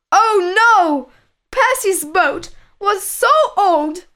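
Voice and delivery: high-pitched, dismayed storyteller exclamation; dramatic "oh no" storytelling; alarmed narration. A narrator's reading.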